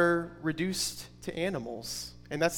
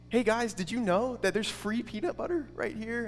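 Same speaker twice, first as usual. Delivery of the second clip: higher-pitched, lightly acted excitement; excited mouse; 5 semitones higher, 4 dB quieter than usual. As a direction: play a mildly giddy little mouse. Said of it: "like, really excited".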